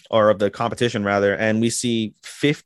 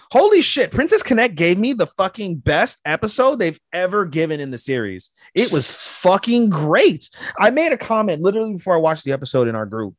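high, loud gushing about the episode; excited; 9 semitones higher, 3 dB louder than usual. Real, not acted. Fan gushes to cohost about the anime episode, excited. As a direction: rave like a thrilled fan.

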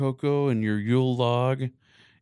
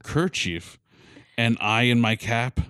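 reading a Christmas poem with drama; dramatic poem reading; 2 semitones higher than usual. Acted. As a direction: recite it like a storyteller. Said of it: "like, dramatic".

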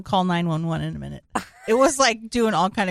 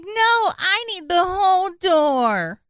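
mock Rose from Titanic; 8 semitones higher than usual. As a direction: play Rose hogging the door, hammed up. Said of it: "She's like".

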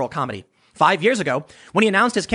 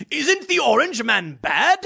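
higher, slow, mocking talk-show host voice; mocking John Oliver; 6 semitones higher, slower than usual. Host fishing for applause from his crowd, slow mocking voice. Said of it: "John Oliver going".

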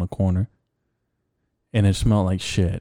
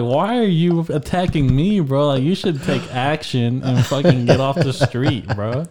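retold exasperated protest, pitched up; worked-up mock telling-off, higher voice; indignant retort; 4 semitones higher than usual. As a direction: argue back as if offended. Retold silent retort to heckler.

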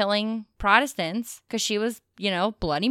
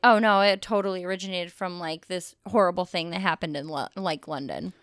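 dramatic theory voice; 4 semitones lower than usual. Retold or imitated. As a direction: sink into a grim hush by London. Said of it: "the other one's like".

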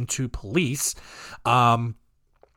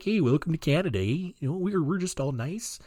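put-on Canadian accent; 6 dB quieter than usual. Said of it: "He's like".

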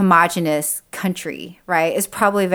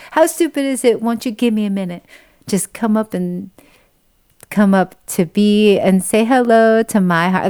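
sweetly quoting the lyric; 2 semitones higher than usual. Retold or imitated. Quoting a favourite lyric, tenderly. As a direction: savour the words tenderly.

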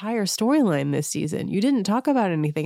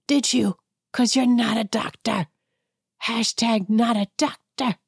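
higher, sarcastic telling-off; sassy call-out; 6 semitones higher than usual. Real, not acted. Host scolding a reality star, sassy and high. Host tells off Anne Marie directly.

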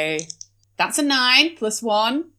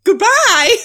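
high posh lady voice; 10 semitones higher, 4 dB louder than usual. Acted. Posh character farewell.

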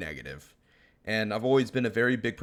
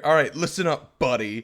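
1 suburban guy; 3 semitones higher, 5 dB louder than usual. Retold or imitated. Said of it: "when you hear".

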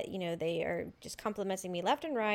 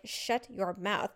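self-scolding; 3 dB quieter, slower than usual. Retold or imitated. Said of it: "I told myself, I'm like".

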